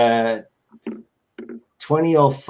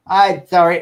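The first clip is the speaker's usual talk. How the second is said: higher, louder old lady impression; weird old lady; 5 semitones higher, 6 dB louder than usual. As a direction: mimic the odd old woman caller's apology. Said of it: "it's the same old lady with the same".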